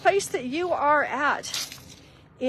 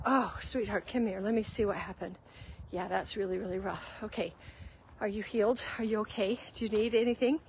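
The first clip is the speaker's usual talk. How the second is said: tender mom; faster than usual. Retold or imitated. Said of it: "a mom who said".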